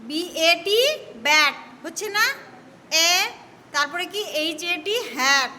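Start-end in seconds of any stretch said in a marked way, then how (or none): 1.3-1.5 A said as অ্যা in "ব্যাট"; "ব্যাট" with the vowel of English cat. Shown as a demonstration. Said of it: "আবার এইরকম উচ্চারণ হয়". 5.2-5.5 A said as অ্যা in "হ্যাট"; "হ্যাট" with the vowel of English cat. Shown as a demonstration. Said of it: "আবার এইরকম উচ্চারণ হয়".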